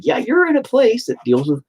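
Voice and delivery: patient warning therapist, insistent; lecturing. Retold or imitated. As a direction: spell out the danger firmly. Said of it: "I'm like".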